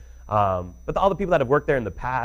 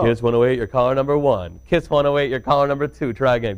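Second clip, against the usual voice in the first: DJ answering contest calls; upbeat radio DJ phone pickup; radio contest promo; 2 semitones higher, 6 dB louder than usual. Shown as a demonstration. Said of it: "Every single time".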